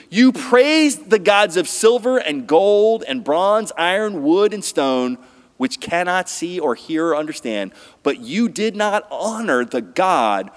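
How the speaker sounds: Daniel rebuking King Belshazzar, declaimed; scripture reading. Acted.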